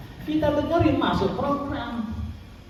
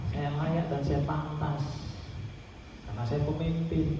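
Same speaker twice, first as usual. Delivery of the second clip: self-affirmation; 6 semitones lower, 6 dB quieter than usual. Shown as a demonstration. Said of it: "Perasaan Bapak sudah di kantor dewan".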